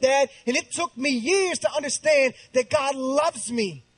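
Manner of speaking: impassioned preaching. Acted. Preaches at full force.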